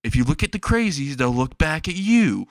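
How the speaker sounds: lightly voiced mother, pitch lifted; a hint of a mom warning her child; cautioning mom. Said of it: "the mom says".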